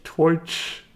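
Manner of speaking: Irish accent. Shown as a demonstration. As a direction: try an Irish oy in "Twitch", unsure. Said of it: "How do you say twi".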